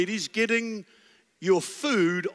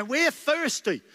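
higher, slow nagging whine; whiny complaint; 8 semitones higher, slower than usual.

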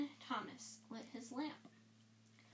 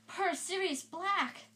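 faint; 7 semitones higher, 4 dB louder, slower than usual. Acted. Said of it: "said Ron faintly".

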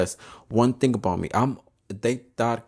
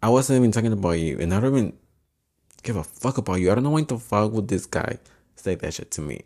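exasperated; 4 dB louder than usual. Retold or imitated. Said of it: "I'm like".

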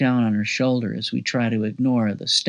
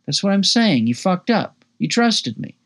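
excited; 8 semitones higher than usual. Acted. Narrator gloats at Keith over the towed truck, excited. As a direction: rub it in gleefully.

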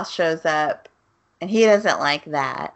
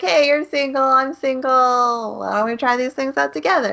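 mock sleazy pickup line; 8 semitones higher than usual.

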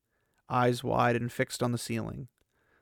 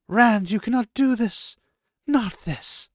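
higher, louder urgent cry; urgent shout; 10 semitones higher, 6 dB louder, slower than usual. Acted. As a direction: shout to stop him in alarm. Moiraine stops Rand's necromancy.

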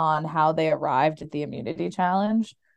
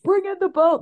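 mimicking Jeff; 11 semitones higher, 3 dB louder than usual.

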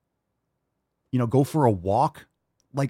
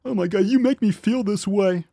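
higher, whiny mock complaint; mocking whiny victim; 8 semitones higher, 3 dB louder than usual. Mocking a victim-minded poster, higher and whiny. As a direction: parody a self-pitying whiner. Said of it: "That's like me coming on here".

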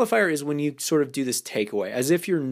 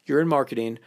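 playful disqualifier. Shown as a demonstration. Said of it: "I bring up this disqualifier piece".

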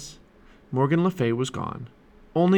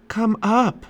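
high, lightly raised call; 10 semitones higher, 4 dB louder than usual. A narrator's reading. Librarian calls down to the children, mild high call. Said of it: "called the magic librarian".

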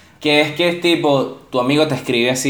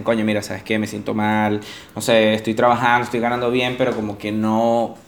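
quiet down quote; 4 semitones lower, 4 dB quieter than usual. Retold or imitated. A friend admitting he feels empty, subdued. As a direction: murmur it like a low friend. Quoting a friend feeling low.

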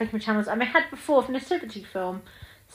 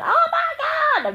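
a much higher, slow shrieking squeal with a laugh; excited inner kid; 5 dB louder, slower than usual. Retold or imitated. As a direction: squeal like a thrilled ten-year-old. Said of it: "ten-year-old me was busy sitting there inside me going".

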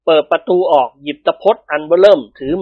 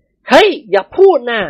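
raised, drawn-out warning; mock warning; 7 semitones higher, 3 dB louder, slower than usual. A narrator's reading. Phon stops Dilek from talking, mock warning. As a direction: warn a pal off in a higher voice.

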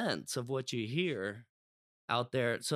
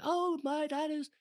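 high, slow mock London accent; London accent with a twang, drawn-out last word; 12 semitones higher, slower than usual. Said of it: "putting a little, little my own twang on it".

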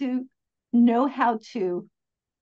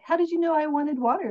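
surprised question; 6 semitones higher, faster than usual. Retold or imitated. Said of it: "And it's like".

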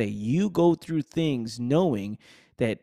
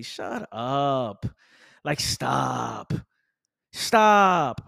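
sharp command; much slower than usual. Real, not acted. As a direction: cut them off hard. Telling complainers off.

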